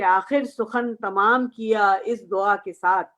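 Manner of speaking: slow, measured mushaira recital; poetry recitation. Acted. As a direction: recite the verse line with deliberate spacing. Recites a couplet to the gathering.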